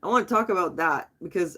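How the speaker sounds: talking while breathing out smoke; words on a smoky exhale; exhaling smoke. Real, not acted. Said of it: "let me take a hit so I can think".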